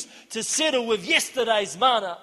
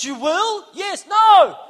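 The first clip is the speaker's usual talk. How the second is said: high, rapid-fire back-and-forth; mock bickering; 10 semitones higher, 10 dB louder, slower than usual. Retelling the argument with Ernie, mock bickering. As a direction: act out a squabble, ending on a loud No. Acts out yes-no quarrel.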